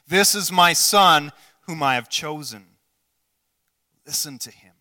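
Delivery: a booming voice of God on the first line, then settling down; godly voice. Pretend. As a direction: proclaim it like God speaking from the cloud. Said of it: "This is my godly voice as much as I can".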